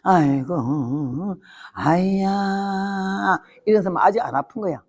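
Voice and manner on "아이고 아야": 아주 느리고 낮게 늘어지는 신음; 배를 째는 아픔을 길게 앓는 소리로. Retold or imitated. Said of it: "신음이 나와요". (마취 없이 수술받으며 내는 낮은 신음)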